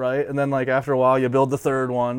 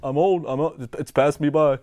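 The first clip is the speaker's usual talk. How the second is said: higher, louder mock-defeated old guy; mock despair of a washed-up rider; resigned Sal; 4 semitones higher, 5 dB louder than usual. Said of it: "he turned around".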